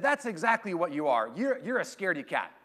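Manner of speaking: bluntly agree, mock-proud; blunt dad. Dad in the car tells timid daughter she's scared, lightly voiced. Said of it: "in his finest parenting moment".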